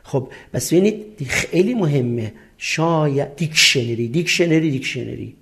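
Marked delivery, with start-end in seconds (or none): 3.4-5.4 دیکشنری in its different forms, fading softer; pronunciation variants demo. Shown as a demonstration. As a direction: repeat دیکشنری in varied forms, dropping away by the last. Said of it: "حالتهای مختلفش".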